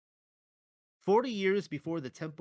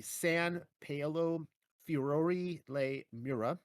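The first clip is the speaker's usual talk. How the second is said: Italian accent; slower than usual. Shown as a demonstration. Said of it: "sorry for my terrible Italian accent".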